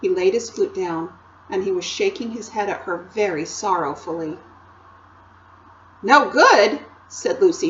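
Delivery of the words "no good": higher, louder alarmed question; a startled little girl's question; rather frightened. A narrator's reading. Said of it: "jumping up and feeling rather frightened".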